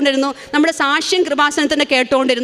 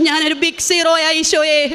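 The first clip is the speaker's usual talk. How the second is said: laughing prayer. Retold or imitated. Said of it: "എന്ന് പ്രാർത്ഥിച്ചു".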